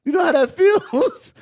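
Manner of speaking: "feels" drawn out high and long, teasing. Real, not acted. Teasing the friend, repeats question.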